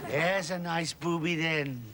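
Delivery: low, soft, drawn-out cooing; gentle pet coaxing. Acted. Man coaxing what he takes for his dog, gentle cooing. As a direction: coax the animal in softly and slowly.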